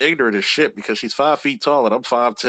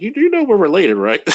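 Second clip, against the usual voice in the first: incredulous; 8 semitones higher, 5 dB louder than usual. Retold or imitated. Incredulous retort to flirting relatives.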